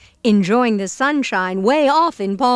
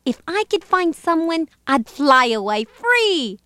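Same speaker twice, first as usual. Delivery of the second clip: lazy bird; 2 semitones higher than usual. Acted. Bird longing for a rest, lazy bird voice. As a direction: play a wistful lazy bird.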